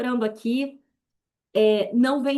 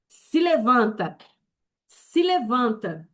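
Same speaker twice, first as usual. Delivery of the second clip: slow command; slower than usual. Acted. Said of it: "commands the listeners to rise".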